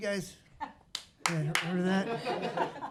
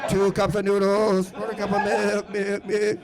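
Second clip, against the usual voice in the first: slow, hammed-up old lady reading a recipe; mock warped record voice, stuck on milk; 4 dB louder than usual.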